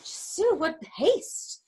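feigned exhaustion. Acted. Nurse fending off impatient Juliet, pretending to be out of breath. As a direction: act too winded to answer. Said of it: "the nurse is pretending to be tired".

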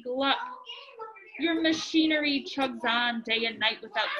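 lively storybook reading voice; reading to children. A narrator's reading. Parent reading Dr. Seuss aloud to a child, lively storybook voice. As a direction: read it out like a bedtime book to kids.

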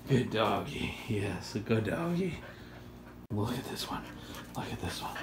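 hushed coaxing to a pet; soft dog praise. Real, not acted.

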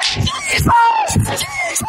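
very high, thin squeal; mock freak-out. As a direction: imitate a wife shrieking in astonishment, kept small. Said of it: "She just freaks out".

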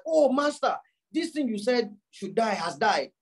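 mock surprise. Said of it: "act surprised".

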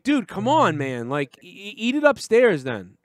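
high, exasperated mock scolding; imitated mad friend. Friend scolding guest who spilled crumbs, mock angry. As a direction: act out the annoyed friend, punching start and end. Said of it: "and he got mad".

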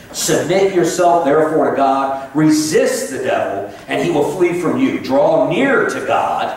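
slow, measured scripture reading; solemn Bible reading from the pulpit. Acted. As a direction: read the verses deliberately, word by word. Reads scripture aloud slowly.

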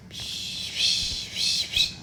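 unvoiced hushing; soothing shush. Sitter hushes the crying baby, soft shush. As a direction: hush the baby softly.

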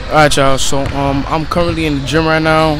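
loud over the noise of the gym; talking over noise. Real, not acted. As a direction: speak up so the camera catches it.

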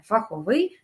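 "фаховий" stressed on ВИЙ; stress on final syllable. Shown as a demonstration. Teacher tells students to remember, "фаховий" with final stress. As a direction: land on the last syllable of "фаховий". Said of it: "запам'ятайте".

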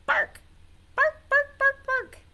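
high, loud, sharp barks; zebra bark. Shown as a demonstration. Teacher answering what the zebra says, high loud barks. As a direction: bark in short, high bursts. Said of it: "what did the zebra say".

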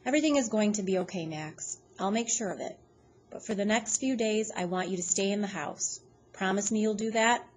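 a hint of a tired old man. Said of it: "in this real old, tired voice".

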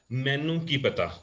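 Punjabi dialect. Shown as a demonstration. Teacher showing Rajpura border speech, in Punjabi dialect. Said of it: "So they say".

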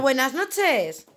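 "Buenas noches" stretched very slow, each syllable spelled out; drawn-out, careful "Buenas noches" for a little one; slow modelling for a child. Shown as a demonstration. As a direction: model "Buenas noches" slowly so the toddler can repeat it. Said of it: "Dile al abuelo".

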